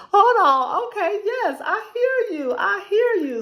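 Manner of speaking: choking up while answering God, real tears; voice breaking with emotion. Real, not acted. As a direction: overcome and tearful, saying I hear you.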